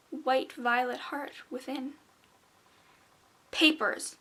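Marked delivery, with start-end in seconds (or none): 3.5-4.2 booming, louder and higher shout; thundering gargoyle. A narrator's reading. Gargoyle thundering at the traveller, booming. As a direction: thunder the demand at her. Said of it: "the gargoyle thundered".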